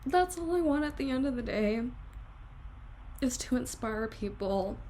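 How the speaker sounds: teary, earnest voice; real crying while pouring it out. Real, not acted. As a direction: speak straight from the heart through tears. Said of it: "now I'm actually crying now".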